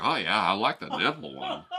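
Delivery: dopey guy voice. Acted. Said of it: "all the guys coming in like".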